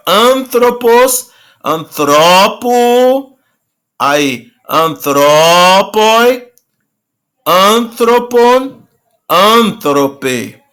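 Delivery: each form "antropos", "antropo", "antropoi", "antropon", "antrope" drawn out slowly; slow declension demo. Shown as a demonstration. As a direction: spell out each ending slowly for the class. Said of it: "Então, aqui, ó". (pronúncia lenta de cada forma)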